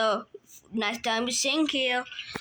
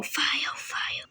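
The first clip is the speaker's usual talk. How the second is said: fading whisper; 6 dB quieter than usual. Pretend. Toy threatens the bully with fire, fading whisper. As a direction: whisper it away to nothing.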